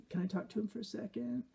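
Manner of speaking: put-on high, soft, girlish parody voice; mock a simpering dating-show contestant; put-on high uptalk voice; Bachelor contestant parody. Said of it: "these great S N L sketches of, of parody".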